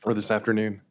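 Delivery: hoarse, fading voice; rough voice, nearly gone; losing voice. Real, not acted. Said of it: "I'm losing my voice a little bit".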